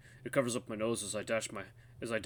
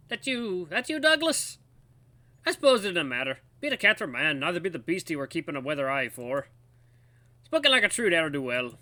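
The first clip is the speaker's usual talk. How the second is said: put-on old guards, suspicious; 6 semitones higher, 7 dB louder than usual. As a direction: grumble on as a wary old codger.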